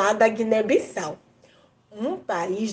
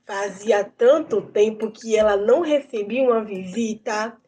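put-on lively storyteller voice for kids; reading to children; 2 semitones higher than usual. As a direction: tell the tale to children with wonder. Tells a folk tale to children.

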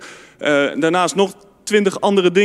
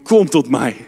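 low-voiced "Kom tot mij" from Jesus; low gentle call; 5 semitones lower than usual. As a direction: call them in low and calm. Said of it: "Die roept".

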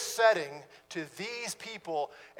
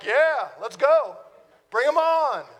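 louder, higher fired-up cry; eager; 5 semitones higher, 7 dB louder than usual. Retold or imitated. Preacher imagining backup arriving, fired-up eager shout. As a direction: pump yourself up for the fight. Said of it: "And I'm like".

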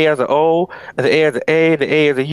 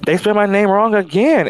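a hint of put-on Southern accent, pitched higher; fake southern twang; 4 semitones higher than usual. Mimicking the woman's fake Southern accent in the phone call. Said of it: "A little southern twang came in there".

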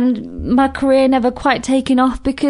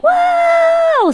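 long, high, loud "whoa"; drawn-out mock cry of someone plummeting; falling wail; 5 dB louder than usual. Acting out a drop from the balcony, high drawn-out wail.

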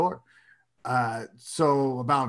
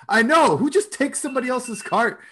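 higher pitched, scandalized scoff; mock the outrage of a fellow shopper; indignant lady; 9 semitones higher than usual. Lady siding with the other shopper, indignant.

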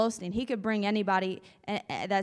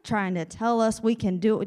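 grumbling mob; 3 semitones lower than usual. Acted. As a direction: growl for someone to fetch rocks. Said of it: "these guys are just like".

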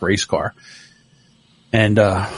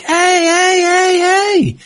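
put-on yelling at kids; much slower than usual. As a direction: cut the argument short. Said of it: "And I'm like".

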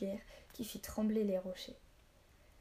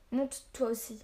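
a touch louder, pressing; urgent call; 3 semitones higher, 4 dB louder than usual. Acted. Boy presses Jara onto the horse, urgent call. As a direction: hurry her up.

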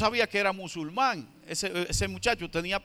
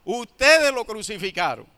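firm, loud accusation pointing at the crowd; accusing; 4 dB louder than usual. Retold or imitated. Pedro accusing the crowd, firm loud accusation. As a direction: hammer the blame on ustedes. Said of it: "y acusó directamente".

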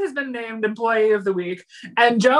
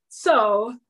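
yawning; 4 semitones higher, slower than usual. Real, not acted.

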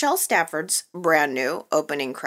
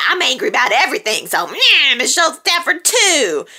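fast, whiny mock of angry fans; mock fan tantrum; mocking complaint; 5 semitones higher, 3 dB louder than usual. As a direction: parody a grumpy fan, a bit higher. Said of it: "People just said".

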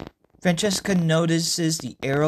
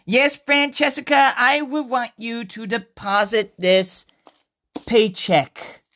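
forced boldness; 4 semitones higher, 3 dB louder, slower than usual. Acted. Nervous customer steels himself.

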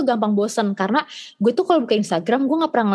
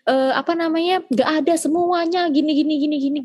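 higher, fast mock mom laying down the law; imitating lecturing mom; 6 semitones higher than usual. Mom forbidding daughter's sleepovers, higher mock lecture. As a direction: rattle off mom's lecture, lightly put on. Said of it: "nyokap gue kayak".

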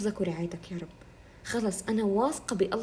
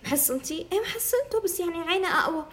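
mock gossiping woman; 6 semitones higher than usual. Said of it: "أنا كتير نماذج شايفتهم".

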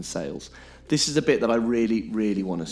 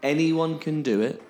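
mock sales pitch; 2 semitones higher than usual. Parroting scam sales pitch.

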